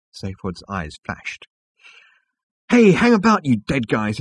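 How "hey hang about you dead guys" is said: excited, high and loud; Zaphod. A narrator's reading. Zaphod interrupting his dead friends, loud excited voice. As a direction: call out to the group, pitched way up.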